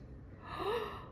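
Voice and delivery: mock gasp of delight. Finds the ad agreement.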